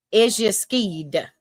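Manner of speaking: "Is ya skied" slow, testing each word; careful pronunciation. Shown as a demonstration. Southerner retrying a guest's name, "skied" said slowly and carefully. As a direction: carefully attempt "skied" at half speed. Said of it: "trying to pronounce it that way".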